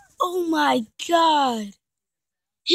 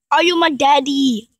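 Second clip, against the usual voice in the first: loud mock question; 5 dB louder than usual. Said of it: "repeated differently".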